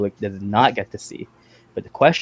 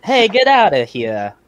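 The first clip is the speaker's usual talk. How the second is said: high, drawn-out mock dismissal; tough-guy impression, stretched out; George; 7 semitones higher, 4 dB louder than usual. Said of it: "Is that George?".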